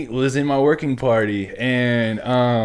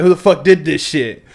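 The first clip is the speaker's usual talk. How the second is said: louder, higher mock instructor bark; hammed-up demand for the culprit; drill instructor roar; 5 semitones higher, 8 dB louder than usual.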